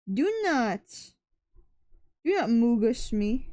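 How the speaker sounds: loud frustrated do not; angry scolding. Real, not acted. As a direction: snap it out, exasperated. Scolding the drawing mid-stream.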